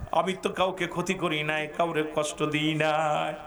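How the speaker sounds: crying lament. Acted. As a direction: lament to God, sinking low. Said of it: "নবীজি কান্দার বলে". (নিচু গলায় করুণ ফরিয়াদ)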